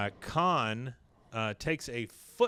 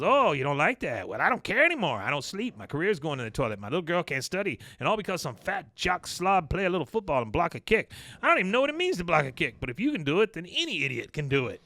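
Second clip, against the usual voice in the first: angry rant; 5 semitones higher, 3 dB louder, faster than usual. Retold or imitated. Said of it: "He goes".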